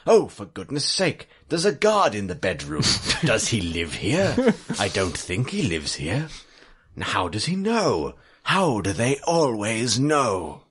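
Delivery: lightly voiced old man, put out; exasperated old storyteller. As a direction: grumble in disbelief as an old man telling his tale. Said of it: "Old Man Storyteller by the Fire".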